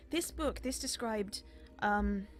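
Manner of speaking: a busy librarian looking up from her work; flustered elf scholar. Acted.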